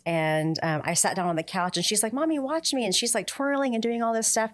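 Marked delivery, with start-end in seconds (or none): 2.1-2.8 put-on little girl voice. Daughter voiced in dream story.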